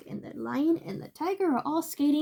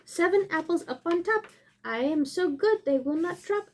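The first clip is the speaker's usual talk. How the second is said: higher-pitched picture-book reading; lively rhyming storybook voice; story read-aloud; 5 semitones higher than usual. Acted.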